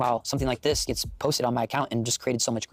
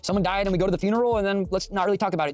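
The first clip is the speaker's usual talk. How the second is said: mocking voice; 7 semitones higher than usual. Mocking society's funeral attitude.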